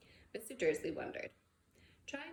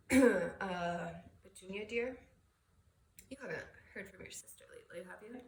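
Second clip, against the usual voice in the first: nervous husband; 3 dB louder than usual. Acted. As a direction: tiptoe around a touchy subject. Nervous husband probing his wife.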